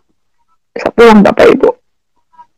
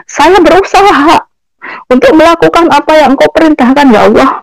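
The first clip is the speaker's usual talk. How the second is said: raised, pitched-up railing at Allah; a mother's bitter complaint to God, higher; angry plea to God; 4 semitones higher than usual. Retold or imitated. Mother railing at God on the way home, high and upset. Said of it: "Saya bilang".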